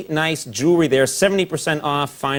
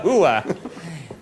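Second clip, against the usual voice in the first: laughing hooah. Retold or imitated. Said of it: "what these guys say in Jersey".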